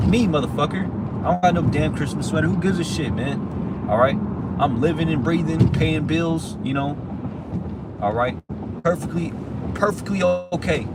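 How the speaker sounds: angry shouting. Real, not acted. Ranting at coworkers about Christmas sweaters, loud angry shouting. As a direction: yell it out, fed up and defiant.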